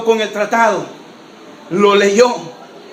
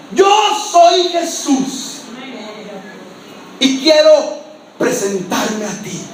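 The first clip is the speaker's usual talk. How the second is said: solemn voice of Jesus; 3 semitones lower, slower than usual. Acted. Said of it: "con una voz fuerte".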